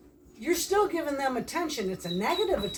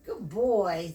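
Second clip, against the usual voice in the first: normal talking voice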